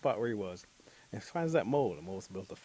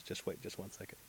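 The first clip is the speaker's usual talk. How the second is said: whispering; 9 dB quieter than usual. Acted. Mole at sleeping girl's house.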